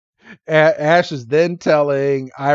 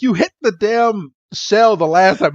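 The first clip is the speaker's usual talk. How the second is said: higher-pitched indignant complaint; mock pissed off; 6 semitones higher than usual. Oshawott complaining about his shell, mock pissed off. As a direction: imitate an irritated little creature griping. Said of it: "Oshawott just gets pissed".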